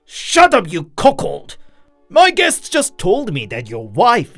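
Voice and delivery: high, loud outburst, dropping off; angry retort. A narrator's reading. Drunk hurls insult at neighbor, angry. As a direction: cut him off with an insult.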